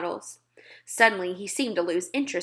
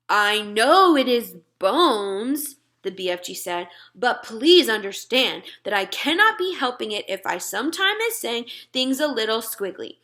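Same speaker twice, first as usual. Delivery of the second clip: a lightly voiced gentle giant, a touch louder; friendly giant talking to a little girl; BFG giant voice; 2 semitones higher, 4 dB louder than usual. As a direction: play the big friendly giant, earnest and muddled. BFG apologising.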